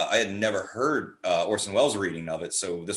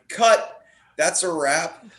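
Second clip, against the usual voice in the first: director calling cut; 7 semitones higher, 5 dB louder, much slower than usual. Retold or imitated. Director calling end of shoot.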